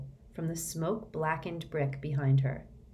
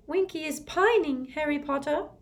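sad elf; 11 semitones higher than usual. Acted. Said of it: "Dobby whispered sadly".

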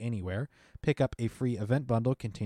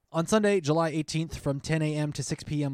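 excited announcer; 5 semitones higher than usual. Acted. Loud announcer restart.

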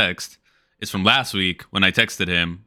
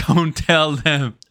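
secretive; 8 semitones higher, much slower than usual. Pretend. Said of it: "Shh, shh".

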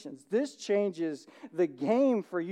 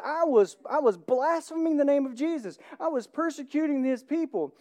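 voicing Paul; 5 semitones higher than usual. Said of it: "The Apostle Paul says".

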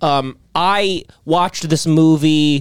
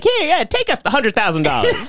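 imagined generous celebrity; 11 semitones higher than usual. Retold or imitated. Imagined celebrity handing out money.

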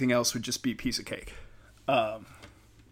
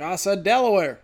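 high-pitched bewildered politician caricature; mock indignant confusion, voice raised high; confused Biden; 8 semitones higher, 3 dB louder than usual. Comedian voices a confused president at his house, bewildered high voice. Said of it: "he's just so confused".

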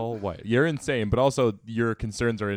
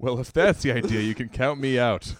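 1 indignant Tom; 3 semitones higher, 4 dB louder than usual. Acted. Reading Tom's outburst aloud.

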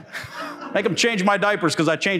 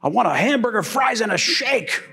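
mildly mocked anger, higher, slow on "fries, and a shake"; ticked off; 6 semitones higher, slower than usual. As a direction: spell out the order in annoyance. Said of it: "he was really getting ticked".

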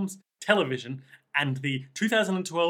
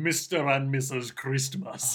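Versace; 3 semitones lower, 3 dB quieter than usual. Retold or imitated. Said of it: "Versace in his deep voice saying".

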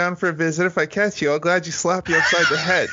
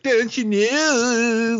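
slow, stretched-out mock punk singing; mocking a punk singer; 6 semitones higher, much slower than usual. Mocking his friend with a slow, warped punk singer voice. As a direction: drag the words out like a whiny punk singer. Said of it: "stupid way of singing where he's like".

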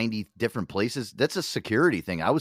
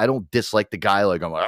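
ordinary delivery

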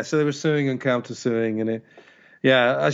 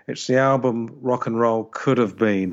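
Alan Partridge voice. Retold or imitated. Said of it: "What would Alan Partridge say?".

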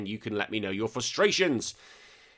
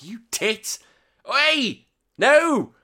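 high, loud mock telling-off; comic outraged parent shouting; retold scolding; 12 semitones higher, 7 dB louder, much slower than usual. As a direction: yelp in exasperated protest, building louder.

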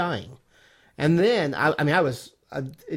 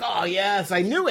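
gleeful gotcha; 3 semitones higher than usual. Retold or imitated. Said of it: "And I'm like".

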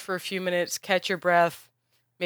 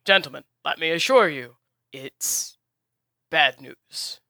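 lightly voiced host, louder and soothing over the bickering; smooth over the quarrel before explaining; placating host; 4 dB louder than usual. Host interrupts arguing heroes to explain the war, lightly voiced.

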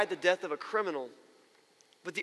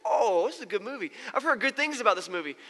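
imitated excitement; 2 semitones higher than usual. Viewer delighted by a movie.

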